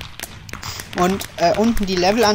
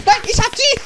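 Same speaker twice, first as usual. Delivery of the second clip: high panicked squeal; playful alarm. Pretend. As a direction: yelp up high as the game turns on you. Gets the potato.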